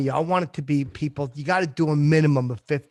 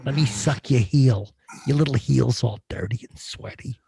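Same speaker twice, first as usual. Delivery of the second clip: Uncle Paul; 2 semitones lower than usual. Acted. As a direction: linger creepily over each word. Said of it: "Uncle Paul's still around, believe me".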